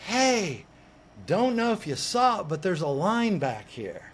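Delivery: loud hey to the cutters; calling out. Retold or imitated. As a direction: call him out across the curb.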